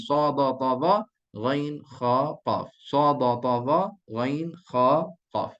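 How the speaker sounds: rhythmic repeat of "Sa, ba, ta, za, ghain, kha, qaf"; four quick beats, then "ghain, kha, qaf" spaced out; memorisation drill. Shown as a demonstration. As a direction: chant "Sa, ba, ta, za" like a drill. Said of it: "Shunting macam tu empat kali".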